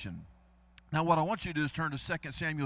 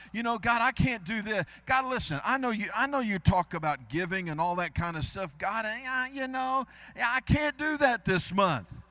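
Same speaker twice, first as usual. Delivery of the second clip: mock whiny prayer; 3 semitones higher than usual. Pastor mimicking a believer excusing himself from giving, mock pleading. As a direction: play the reluctant giver making excuses. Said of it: "guilty of saying".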